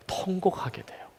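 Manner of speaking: nearly voiceless, intimate; hushed whisper. Real, not acted. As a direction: drop to a breathy whisper on 통곡하게 돼요. Preacher hushes on weeping bitterly. (속삭이듯 낮게)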